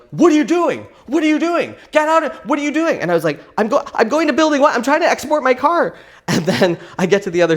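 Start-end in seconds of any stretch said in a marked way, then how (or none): 0.1-3.0 high, loud, fast repeated question; border agent yelling. Retold or imitated. Border agents yelling at a woman running by, loud and high. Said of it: "those border agents are like". 3.6-6.0 high, loud, fast panicked answer; flustered explanation. Retold or imitated. Driver explaining herself to yelling agents, high and fast.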